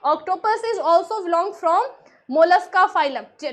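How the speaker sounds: very slow, each word spaced out; slow dictation. Shown as a demonstration. Teacher dictates the fact slowly to her students, word by word. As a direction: spell it out slowly for the class. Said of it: "slow dictation-style English statement".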